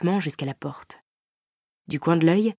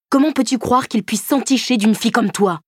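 cruel taunt; 7 semitones higher, 5 dB louder than usual. Acted. Boyfriend's cruel jab.

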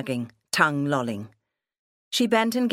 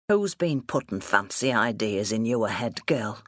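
lower-pitched, mildly gruff questioning; lightly voiced suspicious father; 4 semitones lower than usual. Father asking daughter who influenced her, mildly suspicious.

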